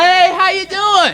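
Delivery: slow, drawn-out, sing-song mock cheer; mock cheerful greeting. Mocking black people greeting white folks, slow overdone cheer. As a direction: mimic a chummy hello, laying it on thick. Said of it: "to white people all cheerfully".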